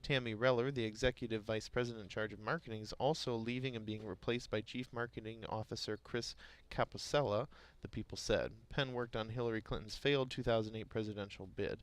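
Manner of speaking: reading market headlines aloud; news read. Acted. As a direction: read it like a radio business bulletin.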